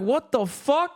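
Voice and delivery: high, incredulous mock shock; high retold what-the-fuck surprise; retold disbelief. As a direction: react in stunned disbelief. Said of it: "I was like".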